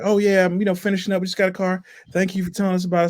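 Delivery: high-pitched mock customer voice; imitated customer. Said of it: "She's like".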